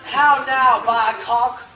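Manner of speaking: slow, drawn-out coaxing as to a pet; slow mock tenderness. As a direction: talk down to him slowly. Mocking Malvolio like a child.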